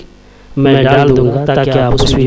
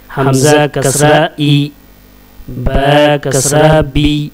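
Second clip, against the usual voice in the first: measured, level-pitched chant of letter names; spelling drill recitation; much slower than usual. Shown as a demonstration. Teacher drilling Arabic letters with kasra for learners, measured recitation. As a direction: recite letter, vowel sign, syllable in even beats.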